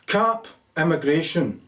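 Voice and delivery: saying it slowly as he types it in; slow typed-in dictation. Shown as a demonstration. Voter typing his vote into the phone, slowly. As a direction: spell out the entry word by word, unhurried. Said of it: "type in".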